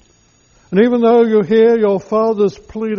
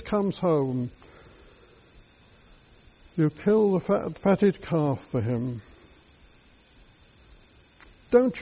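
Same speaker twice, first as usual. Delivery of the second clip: bitter resentment; 2 semitones higher than usual. Acted. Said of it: "mouth full of bitterness and resentment".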